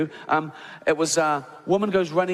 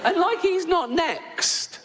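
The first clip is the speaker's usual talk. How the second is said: relieved whisper-giggle; 14 semitones higher, slower than usual. Retold or imitated. Christian relieved he's not next.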